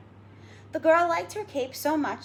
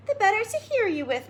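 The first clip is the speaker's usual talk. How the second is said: wolf; 9 semitones higher, 3 dB louder than usual. Acted. Wolf voiced.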